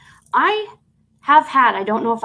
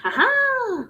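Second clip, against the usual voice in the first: triumphant laugh; 14 semitones higher than usual. Real, not acted. Finally finds the stands.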